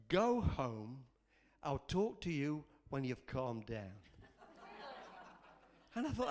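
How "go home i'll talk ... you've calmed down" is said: low, measured fatherly reply; the Lord. Retold or imitated. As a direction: send a child home calmly and firmly. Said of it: "I felt the Lord say to me".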